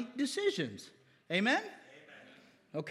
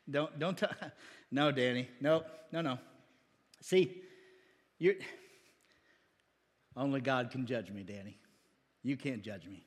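low, soft, brushing-off voice; mock defensive member; 9 semitones lower, 5 dB quieter than usual. Member tells pastor Danny he can't judge, low and dismissive. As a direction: push the pastor's advice away.

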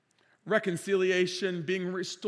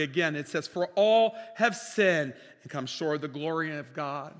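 raised preaching voice, full pulpit force; fervent sermon delivery; 4 dB louder than usual. Acted. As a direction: proclaim it to the congregation.

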